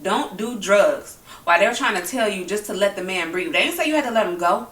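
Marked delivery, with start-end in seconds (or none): 0.0-1.2 slow, drawn-out mock of the officer; mocking quote. Vlogger mocks the officer's words to bystanders, slow and scornful. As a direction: stretch it out with scorn. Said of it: "He had the nerve to tell these people".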